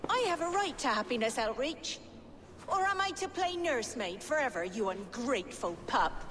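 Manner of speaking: angry. Acted. Sister's angry quarrel.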